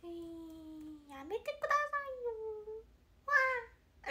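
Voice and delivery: put-on high, fast shy-girl protest at being filmed; imitating Konaa. Idol imitates bandmate Konaa dodging the camera, high and fast. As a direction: squeal it out like a girl caught on camera. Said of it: "みたいな".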